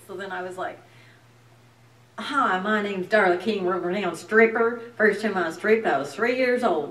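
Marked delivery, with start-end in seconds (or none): 2.2-6.9 loud Texas stage character; heavy Texas accent. Shown as a demonstration. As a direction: introduce yourself in a broad, hammed-up Texas accent. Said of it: "I just did this heavy accent".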